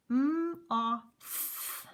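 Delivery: segment each sound clearly; sounding out moth. Shown as a demonstration. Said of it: "Three sounds".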